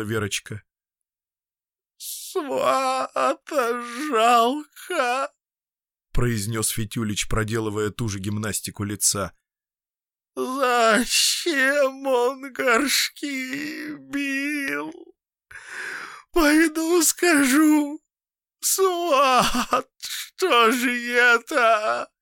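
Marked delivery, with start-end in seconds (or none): 2.0-5.3 crying, very slow and high; sobbing lament; tearful. A narrator's reading. Fityulich about to cry. 10.4-22.1 high, slow, tearful and rising to a shout; high slow tearful outcry; upset tearful man. A narrator's reading. Fityulich upset, wants to confront.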